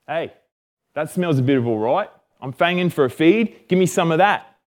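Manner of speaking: lightly hammed-up Aussie bloke; a touch of broad Aussie, lifted at the end; Aussie accent. Esau comes in hungry and wants food, mild Aussie accent. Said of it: "why he sounded like an Aussie".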